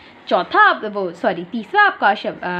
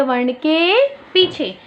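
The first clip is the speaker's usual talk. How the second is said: slow teacher emphasis; 3 semitones higher, much slower than usual. Shown as a demonstration. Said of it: "कहाँ लगती है?".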